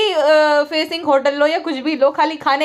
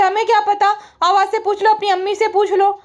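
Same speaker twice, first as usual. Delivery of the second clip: raised-pitch imitation of a brush-off; mock dismissiveness; 6 semitones higher than usual. Vlogger imitating her telling them to ask mother, mock dismissive. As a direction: mimic her passing the question on, higher.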